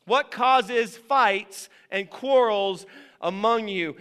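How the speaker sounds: same slow question again, pressing it; repeated slow. Shown as a demonstration. Preacher repeating the verse to the church, slow and pressing. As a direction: ask it again, slow and deliberate. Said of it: "It's a question".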